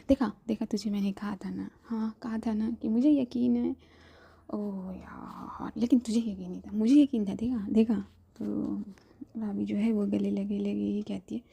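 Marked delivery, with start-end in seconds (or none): 0.1-8.0 gleeful. Acted. Gleeful I-told-you-so.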